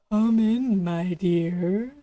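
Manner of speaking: lightly voiced scratchy wolf-granny; deep scratchy voice. A narrator's reading. Wolf in bed pretends to be Granny, light scratchy voice. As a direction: rasp it like a wolf posing as granny. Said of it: "a deep, scratchy voice that answered".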